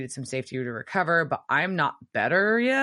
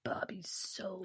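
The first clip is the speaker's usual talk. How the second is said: slow quiet whispered aside; unvoiced slow aside; 4 semitones higher, 15 dB quieter, slower than usual. Real, not acted. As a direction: drop to a whisper mid-joke. Aside while laughing at scene.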